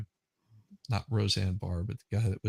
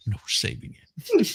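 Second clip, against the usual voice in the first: much higher, sing-song squeal; high mock preacher voice; 13 semitones higher than usual.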